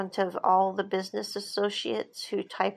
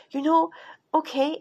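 smug glee; 8 semitones higher, 4 dB louder than usual. Retold or imitated. Man agreeing, still gloating.

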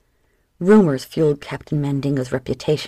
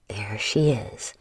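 pleased pirate; 7 semitones lower, 5 dB quieter, slower than usual. Acted. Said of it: "Ginger grinned".

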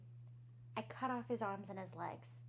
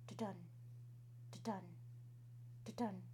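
heartbeat sounds; 3 semitones lower, 10 dB quieter than usual. Acted. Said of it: "it kept getting louder".

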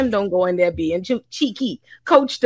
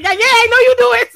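high, fast mock gotcha voice; imitating a smug lawyer who thinks he caught someone, much higher and quicker; 10 semitones higher, 7 dB louder, much faster than usual.

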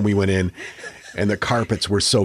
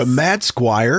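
surprised question; 3 semitones higher, slower than usual. Real, not acted. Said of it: "I love that name".

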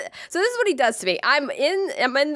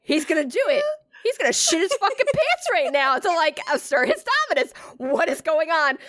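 higher, hammed-up panic at his pose; gasping in mock alarm, pitched up; 5 semitones higher than usual. Telling her friend how she panicked, pitched up and alarmed. Retold panicked inner thought.

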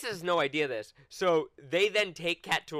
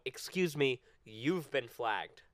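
stern official; 4 semitones lower, 6 dB quieter, slower than usual. Retold or imitated. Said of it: "they go".

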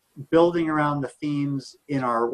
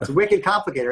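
hammed-up Boston accent, "wicked" punched; a jokey bad Boston accent on "wicked complicated"; 4 semitones higher than usual. Shown as a demonstration. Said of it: "with a really bad Boston, uh, accent".

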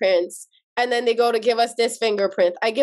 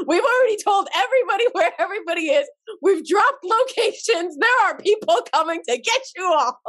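mocking taunt; 7 semitones higher than usual. Cousins taunting the army base staff.

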